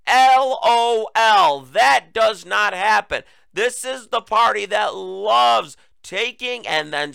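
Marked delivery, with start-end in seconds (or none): 0.1-3.2 spelled out slow and loud, higher, dripping with scorn; loud mocking L O L. Real, not acted. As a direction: sneer it letter by letter, then slam the point.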